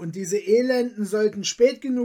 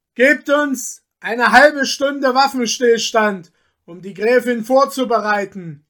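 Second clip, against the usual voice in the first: loud, raised voice projected to carry; 2 semitones higher, 7 dB louder than usual. A man calls out to the robbers before consulting the countess: loud voice. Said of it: "fuhr er mit lauter Stimme fort".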